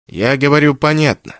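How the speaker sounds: ordinary delivery, nothing marked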